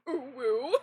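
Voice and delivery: high cutesy coo; a little anime-girl coo, hammed up; girly ooh woo. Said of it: "girly girl high-pitched ooh woo voice".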